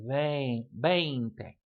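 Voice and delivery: vain then veinte, the same ei vowel in both; long A vowel. Shown as a demonstration. Teacher linking English vain to Spanish veinte, careful vowel. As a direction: model the A of vain inside veinte. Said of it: "but the A".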